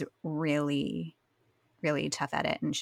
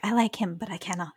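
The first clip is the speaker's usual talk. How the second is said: mock obnoxious Rory; 4 semitones higher, 3 dB louder, faster than usual. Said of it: "Rory kind of just being obnoxious".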